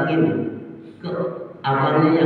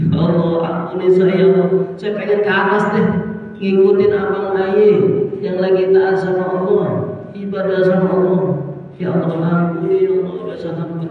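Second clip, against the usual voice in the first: pleading repentance; 5 semitones higher than usual. Acted. Drunk brother begging God's forgiveness.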